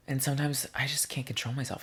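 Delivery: whispered guilty confession; whispering. Real, not acted. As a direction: whisper it like a secret.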